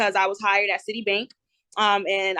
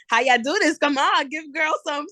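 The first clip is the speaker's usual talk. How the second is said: playful pleading; 6 semitones higher than usual. Retold or imitated. Young teller begging millionaire customers for tips, higher playful coaxing. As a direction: wheedle the customers for their secrets. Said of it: "I'm like".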